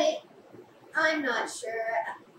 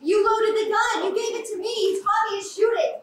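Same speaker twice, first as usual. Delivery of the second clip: angry accusation; 6 semitones higher than usual. Acted. Furious accusation in a quarrel.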